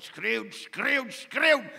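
oplopend tot een luide schreeuw; imitating shouting. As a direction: schreeuw het steeds harder. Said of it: "want hij schreeuwde altijd". (steeds harder schreeuwend nagedaan)

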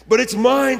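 loud, high-pitched acted protest; storybook scream. A narrator's reading. Maisie claims the cracking egg, acted scream. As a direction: cry out indignantly as the bird. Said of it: "screamed the bird".

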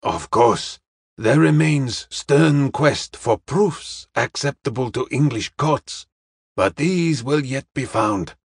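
deliberate, formal assurance; a hint of Charlie Chan, slow and careful; lightly voiced Chinese detective. Detective says proofs will be found, slow and formal. Detective reassures young woman.

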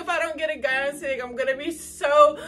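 buzzing with excitement; excited. Real, not acted. Thrilled recounting her manifesting.

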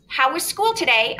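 mother's question read aloud in a story voice. Shown as a demonstration. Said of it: "let me go back to my reading voice".

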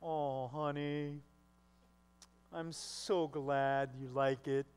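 low, very slow, put-on cool husband; playing it cool. Husband hiding joy from his wife, playing it cool. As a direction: stretch it out, acting unimpressed. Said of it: "And the guy plays it cool".

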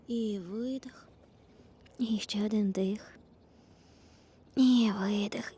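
whispered breath cues. Real, not acted. Yoga teacher whispering breath cues.

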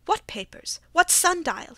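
alarmed disbelief, the voice jumping up; startled questions. A narrator's reading.

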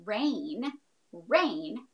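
rain said slowly and clearly; rain, drawn out to show one beat; syllable demo. Shown as a demonstration. Teacher counting syllables to kids, clear and slow. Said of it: "if I had the word".

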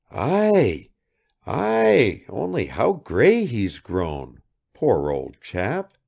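glad, then touched by his grey hair; moved son spotting his old father; fond recognition. Acted. Son sees his aging father.

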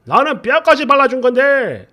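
lightly voiced aggrieved husband; sulky husband imitation. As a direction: play the hurt husband defending himself. Husband's defensive excuse retold.

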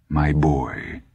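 a lightly voiced gentle old man; gently. A narrator's reading. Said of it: "Dusander said gently".

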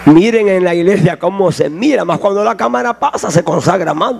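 low, sneering devil voice; devil's sneer. Acted. Preacher voicing the devil watching a churchwoman, low and sneering. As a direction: point out the hypocrite as the devil.

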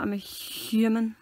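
"human" slowed, with a heavy breathy H; over-aspirated H. Real, not acted. Friend denying being a monkey, "human" said with an odd airy H. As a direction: draw out the H at the start of "human". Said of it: "Why did you say that so weird?".

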